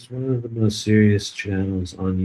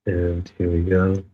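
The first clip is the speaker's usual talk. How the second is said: mock guided meditation; 2 semitones lower than usual. Streamer leading chat in a joking healing session, mock meditation voice. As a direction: playfully lead the chat into calm.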